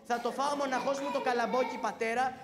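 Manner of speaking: loud claim to the corn; child grabbing the treat; loud insistent child. Acted. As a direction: shout that the corn is all his.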